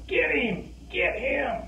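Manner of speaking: imitated bench yelling. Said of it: "Our bench is yelling".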